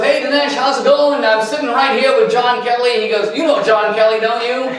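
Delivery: lightly voiced Trump, chummy and upbeat; a hint of Trump on the phone; Trump impression. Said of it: "the guy was in a very Trumpian mood".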